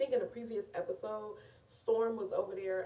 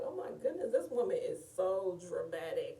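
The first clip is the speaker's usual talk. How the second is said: mock-scandalised squeal at the crying aunt; shocked reaction. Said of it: "And I was like".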